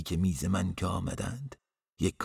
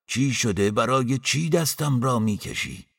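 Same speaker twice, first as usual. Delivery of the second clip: loud, raised-pitch startled question; alarmed protest; 5 semitones higher, 7 dB louder than usual. A narrator's reading. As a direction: demand to know, voice jumping up. Protests being pulled by arm. (اعتراض با صدای بلند و هراسان)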